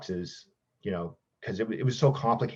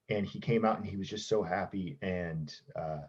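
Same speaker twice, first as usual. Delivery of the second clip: teary; 5 dB quieter than usual. Real, not acted. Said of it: "it's gonna make me teary".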